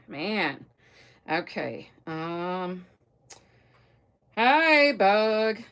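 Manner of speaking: usual speaking voice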